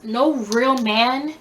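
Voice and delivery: "real" stretched long and leaned on; slow, insistent weight on "real"; stress on real. Real, not acted. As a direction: draw out "real" slowly for emphasis. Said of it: "Emphasis on the real".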